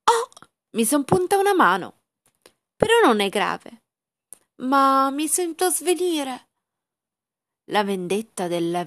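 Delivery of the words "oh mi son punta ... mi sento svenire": higher, slowing into a swoon; fading as she feels faint; faint, pained voice. Acted. Princess pricks finger, faints.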